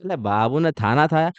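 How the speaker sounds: lisping cutesy lover's talk, r and kh softened to l and th; mock baby talk. Teacher mocks students' late-night lovers' chat, lisping baby talk. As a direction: coo it like a couple's baby talk, a bit mocking. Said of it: "कैसे तोतले हो जाते हो दस बजे के बाद?".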